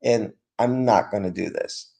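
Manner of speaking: low-pitched, firm statement without raising the voice; clear emphatic. Shown as a demonstration. Teacher modelling a clear refusal for students, clear emphatic. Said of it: "could just be very clear emphatic, like".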